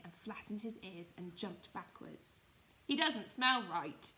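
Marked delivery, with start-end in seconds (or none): 2.8-4.1 louder, slow wild rabbit alarm; loud slow suspicious wild rabbit; exclaiming. Acted. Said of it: "he exclaimed".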